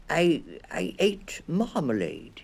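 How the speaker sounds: small bear proud of his food; proud little bear. A narrator's reading. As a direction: announce the marmalade with small pride. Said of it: "he said rather proudly".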